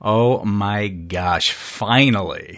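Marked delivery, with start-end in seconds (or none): 1.5-2.6 finally drawn out slowly with weight; stress on finally. Shown as a demonstration. Stressing finally after years of waiting for launch. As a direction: lean hard on finally, slow and relieved. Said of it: "And I emphasize the word finally".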